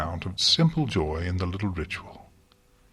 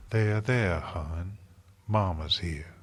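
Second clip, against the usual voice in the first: softer, tender cooing; slower than usual. A narrator's reading. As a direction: coo to the sapling like a mother. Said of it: "Her voice became a soft coo".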